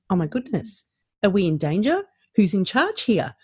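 lightly acted anxious questioning; mock worry. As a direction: voice a worried man's rising questions. Voices men's alarm without an alpha.

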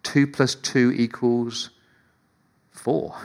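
slow, spelled-out arithmetic; teacher stating the obvious; slow, deliberate sum. Shown as a demonstration. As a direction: lay out each number like a teacher. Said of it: "like me teaching maths".

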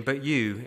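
"you" stressed firmly, a direct challenge; emphatic you. Retold or imitated. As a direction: lean hard on "you" as if pointing at the disciples. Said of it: "it's an emphatic you".

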